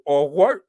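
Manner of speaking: "wor-" with an effortful rolled R; attempted rolled R. Shown as a demonstration. Host practicing the accent, "wor-" with rolled R. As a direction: trill the R at the end of "wor-". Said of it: "I'm trying to roll the R".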